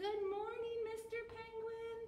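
put-on high, sing-song greeting for children to echo; modelled group greeting. Shown as a demonstration.

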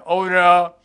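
slow, high comedic Relangi delivery; Relangi impression. Shown as a demonstration. Mimic recites the line as comedian Relangi. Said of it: "Relangi చెప్పాడు".

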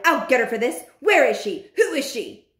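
mildly shouted threat and demands; angry shout. Acted. Bruno wanting revenge on the witch, angry demands. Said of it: "he shouted".

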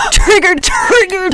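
high, loud sing-song taunt; teasing chant; mocking taunt. Real, not acted. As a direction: needle him with it. Teasing the offended kid.

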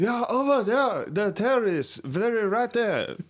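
high, drawn-out imitation of an Asian accent; mock Asian accent. Asian man pointing out the terrorist, high mock Asian accent. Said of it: "The Asian man".

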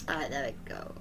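soft unvoiced whisper. Real, not acted. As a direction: breathe it out in a whisper. Whispered repeat of same words.

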